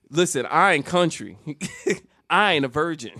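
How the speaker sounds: loud, cocky schoolyard declaration; puffed-up bravado. Retold or imitated. Schoolboy back at school setting classmates straight, loud bravado. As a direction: announce it with chest puffed out. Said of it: "got my chest puffed out".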